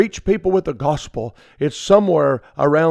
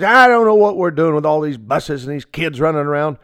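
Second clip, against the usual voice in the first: snide grumbling put-on voice, louder; smarty mouth; 3 dB louder than usual. Smart-mouthed church member grumbling about the children, snide. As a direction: sneer about the kids. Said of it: "somebody says".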